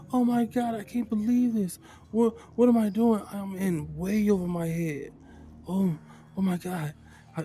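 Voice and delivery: high, loud panicked outburst; freaking out. Acted. Kiba realizes the whole party is dead, freaking out. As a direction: panic loudly, stammering as it overwhelms you. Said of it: "He's freaking out".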